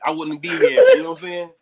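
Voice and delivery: exasperated, cracking up; real laughter at the end; laughing wrap-up. Real, not acted. Wrapping up the story.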